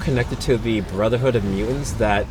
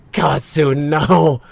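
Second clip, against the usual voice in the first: raised, anguished cry; shaking with anger; 4 semitones higher, 4 dB louder, much slower than usual. Acted. Character cries out.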